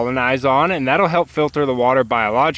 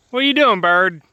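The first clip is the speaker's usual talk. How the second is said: high pet talk; 4 semitones higher, 3 dB louder than usual. Real, not acted. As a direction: chirp it to the bird. Talking to a chicken.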